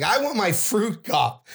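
high, insistent retold complaint; indignant demand. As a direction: protest like a thwarted luncheon guest. Retold demand made to guard.

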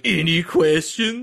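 drawn-out catchphrase impression; David S. Pumpkins. Fan quotes a comedy sketch character, drawn-out impression. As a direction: stretch it out like a goofy sketch character. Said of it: "the guy from Saturday Night Live who's like".

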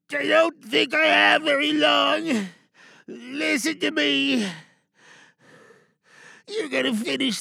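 strained, pained soldier shouting; dying soldier. Acted. Dying soldier begs lieutenant to carry on, strained. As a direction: urge the lieutenant on through pain.

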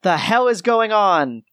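crackly radio voice over comms; voice through static. Acted. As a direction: speak as if through a crackling intercom. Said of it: "you hear a crackled voice".

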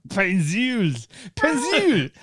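mock Austrian-French pronunciation of "Pencil"; Austrian-French accent. Echoing the co-host's joke, Austrian-French accent. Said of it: "How do you say pencil is Arnold Schwarzenegger Austrian French".

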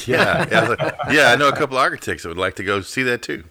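chuckling through the words, amused; laughing. Real, not acted. Co-host laughing at the joke about bringing architects. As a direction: laugh along at the joke while answering.

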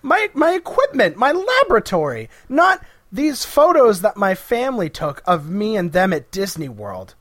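high, loud distraught lament; mock wail. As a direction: wail over the lost lab. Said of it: "Maxtible's like".

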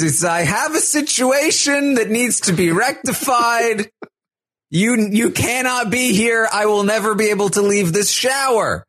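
half-hearted replay of the stuck guy. Retold or imitated.

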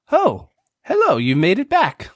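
high bright call across a room. Acted. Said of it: "she yells across the room".

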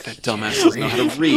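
lightly high mocking put-down; sneering high aside. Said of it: "then he's like".

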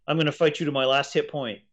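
cardboard evil dragon. Retold or imitated. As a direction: ham it up like a cardboard villain. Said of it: "a cardboard evil red dragon".

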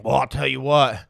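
a hint of dad weighing in, low; low-pitched mimicking of a folksy father; imitated dad. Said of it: "my dad looking at my mom saying".

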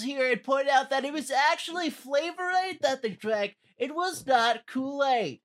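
lightly voiced know-it-all; a hint of a nerd making a pedantic correction; nerdy pedant. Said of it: "put on my, uh, nerd glasses".

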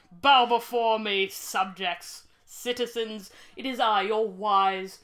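loud, slow, booming emperor voice; dark lord. Pretend. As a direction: proclaim like a grand tyrant. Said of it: "And we are also your emperor".

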